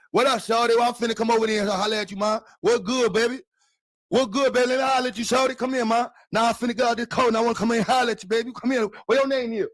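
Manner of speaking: put-on high, loud, fast Southern country accent. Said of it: "let me see if I can still do my country shit".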